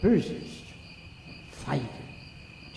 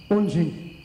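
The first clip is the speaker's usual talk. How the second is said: too loud; 3 semitones higher, 5 dB louder than usual. Acted. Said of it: "etwas zu laut".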